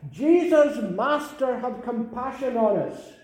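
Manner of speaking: loud, high plea called across a distance; calling out from afar. Acted. Lepers calling from outside the camp, loud pleading cry. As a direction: cry out to Jesus from far off.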